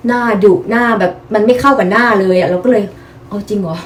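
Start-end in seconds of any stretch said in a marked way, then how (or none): 3.1-3.8 slow, soft, disbelieving mutter; disbelief. Retold or imitated. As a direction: ask it quietly as if you can't believe it. Retold reaction to being called stern-faced. (ถามเบาๆ ช้าๆ แบบไม่อยากเชื่อ)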